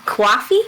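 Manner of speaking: "coffee" tried as kwaffee, questioning; rising kwaw-fee imitation of "coffee". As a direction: mimic "coffee" with a w after the c. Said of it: "there's a W in there".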